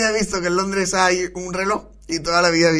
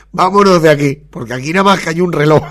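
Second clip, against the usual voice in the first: loud; 2 semitones lower, 6 dB louder than usual. Acted. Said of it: "han dicho".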